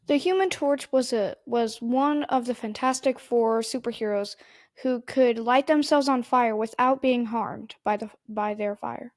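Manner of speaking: reciting like a robot. Real, not acted. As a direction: read it like Wikipedia. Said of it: "why'd you say that like Wikipedia".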